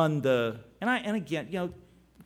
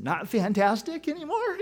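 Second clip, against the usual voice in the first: teasing; 5 semitones higher than usual. Retold or imitated. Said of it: "I had a smile on my face".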